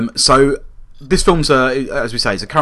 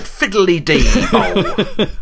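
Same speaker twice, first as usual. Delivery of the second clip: high, laughing mock Irish accent; bad Irish accent; 9 semitones higher, much slower than usual. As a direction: ham up a stage-Irish greeting. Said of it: "worst Irish accent ever".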